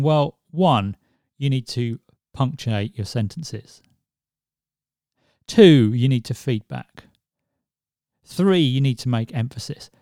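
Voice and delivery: each numbered point followed by a clear pause; pauses between points. Shown as a demonstration. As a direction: let each point land before the next. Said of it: "I'm just allowing just that little pause in there".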